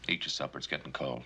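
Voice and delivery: sighing, soft and tired; weary sigh. Acted. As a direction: let it out on a tired breath. Weary father ends the argument.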